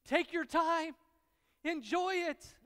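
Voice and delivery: high, loud, slow oh my goodness, drawn out in delight; ecstatic tongue voice. Retold or imitated. Preacher voicing his tongue savoring a steak, high, loud and drawn out. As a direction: swoon over the taste of the steak. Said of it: "my tongue screamed at me".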